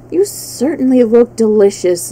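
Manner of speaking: hungry beast, lightly voiced; a polite, greedy tiger. Tiger figure voice.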